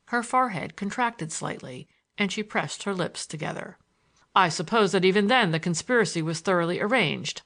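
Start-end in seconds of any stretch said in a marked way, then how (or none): 4.3-7.4 mocking jab, half laughing; taunting. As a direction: taunt her with it. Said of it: "I said tauntingly".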